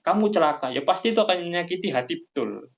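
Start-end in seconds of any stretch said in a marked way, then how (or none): 0.0-0.7 harsh Javanese curse. Retold or imitated. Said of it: "orang Jawa akan bilang".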